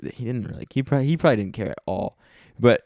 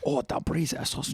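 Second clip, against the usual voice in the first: mock Asian accent; 4 semitones higher, 7 dB quieter than usual. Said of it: "strong Asian accent".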